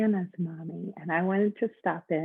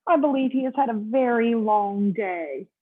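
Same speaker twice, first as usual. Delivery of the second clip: bright, slow, higher hotel bellhop greeting; 4 semitones higher, 4 dB louder than usual. Acted. Bellhop welcoming Mister Snore, high and cheery.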